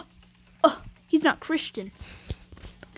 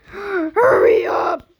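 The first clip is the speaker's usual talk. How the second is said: urgent shout; 3 semitones higher, 5 dB louder, much slower than usual. Pretend. Door code rush.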